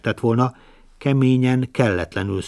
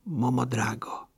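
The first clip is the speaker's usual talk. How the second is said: spiteful whisper; 2 semitones higher, 7 dB quieter, slower than usual. Acted. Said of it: "kajánul ezt sukta".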